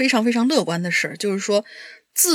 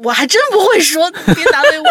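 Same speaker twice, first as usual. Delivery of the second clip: embarrassed laughing plea, higher and louder; laughing protest; 7 semitones higher, 7 dB louder than usual. Real, not acted. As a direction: laugh it off, flustered. Embarrassed about not speaking dialect. (笑着难为情地推辞)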